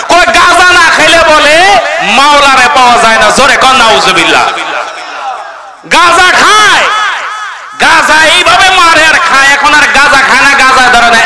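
crowd-rousing sermon with rhetorical questions; fiery preaching. Real, not acted. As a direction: swing between scolding outbursts and prodding the crowd to respond.

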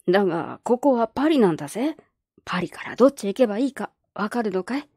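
a lightly voiced skeptical old man; gruff old man. Old man doubting the girl's trip, lightly gruff. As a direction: doubt her plan like a crusty grandpa.

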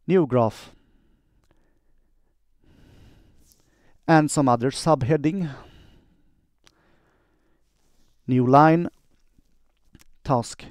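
dictating. Shown as a demonstration. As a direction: dictate clearly, every word spelled out for the machine. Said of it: "quick demo of how I do dictation".

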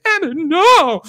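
high, loud hammed-up yell; mock shout. Mock yelled cry as Tannen grabs a dancer. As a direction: yelp it out, hammed up.

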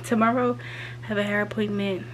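winded from the stairs; out of breath. Real, not acted. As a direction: still catching her breath. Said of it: "sorry I'm out of breath running up the steps".

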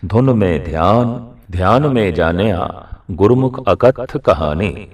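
slow, deliberate scripture quotation; verse recitation. Acted. Preacher cites Guru Nanak on attention, slow recitation. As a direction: recite it unhurriedly, phrase by phrase.

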